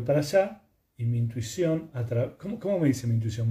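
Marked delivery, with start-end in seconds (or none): none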